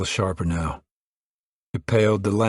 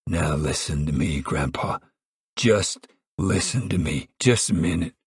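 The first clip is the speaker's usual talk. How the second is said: helpless pleading; 2 semitones lower than usual. Acted. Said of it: "Pa said helplessly".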